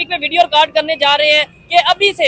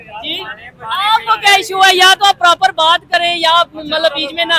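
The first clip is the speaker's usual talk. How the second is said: annoyed shout. Real, not acted. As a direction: call out sharply to stop the heckler. Host shouts at someone off camera.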